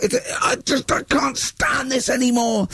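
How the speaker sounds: high, slow, breathy whisper of defeat; despairing whisper. Retold or imitated. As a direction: whisper as if at the end of your rope. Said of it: "And it was like".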